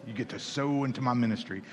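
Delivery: soft, slightly smug mock Paul; a quiet teasing take on Paul asking for support. Preacher joking about Paul's letter, soft teasing impression. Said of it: "he said it in that voice".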